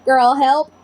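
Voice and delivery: lightly voiced hurt giant; a hint of a big hurting creature calling; mildly voiced hurt unicorn asking for help; booming unicorn voice. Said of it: "A large booming voice called out".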